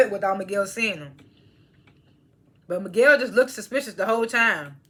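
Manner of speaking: talking while chewing pistachios; chewing between words; mouth full. Real, not acted. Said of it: "I was just eating some pistachios".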